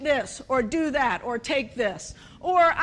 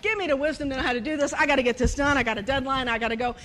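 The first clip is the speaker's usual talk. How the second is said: retold hurried prayer; faster than usual. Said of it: "I'm sitting there in my desk praying".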